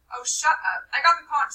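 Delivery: loud, high protest; Piggy shouting. Acted. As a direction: shout to be heard over the boys. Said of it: "said Piggy".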